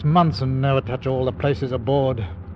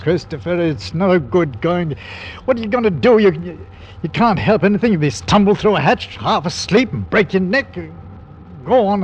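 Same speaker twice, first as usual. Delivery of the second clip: forceful; 5 semitones higher, 3 dB louder than usual. Acted. Captain urges Christopher strongly.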